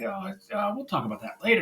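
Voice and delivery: mock-casual deflection; playing it off. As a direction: imitate someone dodging the subject. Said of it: "playing it off".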